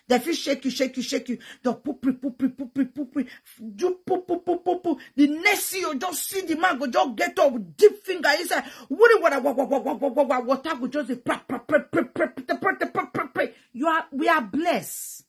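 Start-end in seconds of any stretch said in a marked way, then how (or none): 1.6-5.0 rapid repeated "poop" sound effects; imitated squelching noises. 8.9-13.5 rapid "wa-wa" then "pra-pra" splatter; babbled splashing sound effects; imitated gushing water.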